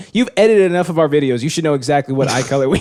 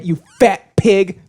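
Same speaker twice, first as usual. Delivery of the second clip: relishing insult; 3 semitones higher, much slower than usual. Acted. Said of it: "it feels so good to say it".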